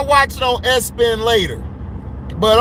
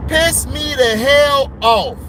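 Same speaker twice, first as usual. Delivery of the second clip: angry; slower than usual. Real, not acted. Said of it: "I'm so mad".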